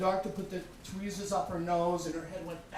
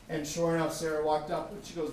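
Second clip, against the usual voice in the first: normal talking voice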